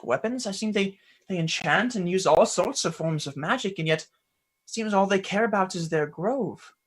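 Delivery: lightly voiced questioning youngster; Ulrich. Boy asking his mentor about the Fae, earnest and curious.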